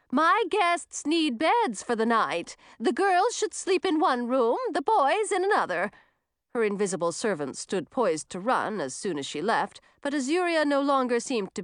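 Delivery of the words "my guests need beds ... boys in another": put-on high, slow, commanding old witch; loud witch command. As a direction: announce it to the whole hall. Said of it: "said in a loud voice".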